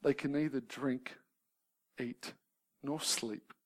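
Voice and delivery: slow, measured solemn reading; reading a quote. Shown as a demonstration. Preacher quoting Burton on the depressed, slow and solemn. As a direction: read the old words gravely and slowly. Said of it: "He says".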